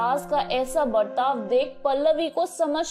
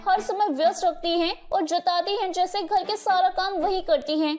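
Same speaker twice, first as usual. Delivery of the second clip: a lightly higher voice for the spoiled daughter, complaining; grumbling daughter; 3 semitones higher than usual. Acted. Daughter nagging her mother about the sister-in-law, mildly sulky.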